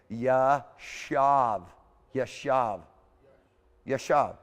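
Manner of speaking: Yashav said yah-SHAHV, stretched slow on the first take; Yashav, yah-SHAHV, three times, the first one drawn out; slow Hebrew drill. Shown as a demonstration. Teacher drills the class on Yashav, yah-SHAHV, repeated. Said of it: "it's a Y A S H A V".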